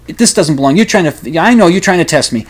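a hint of the showy psychic catching them out; theatrical psychic, lightly played; mock Russian psychic. Psychic again, more insistent.

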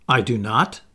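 curt, sharp refusal; tart. Acted. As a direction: snap it off flatly.

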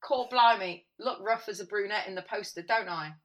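reading it out in Cockney; Cockney accent. Retold or imitated. Fan reads the actress's tweet in Cockney accent. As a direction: exclaim in Cockney, then ease off. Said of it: "like, a Cockney accent".

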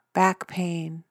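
usual speaking voice

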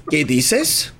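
high, scandalized Spanish scolding; mock outraged teacher. Teacher confronting a student she takes for a pervert, mock outrage. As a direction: climb into a high-pitched, indignant imitation. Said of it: "screaming at me".

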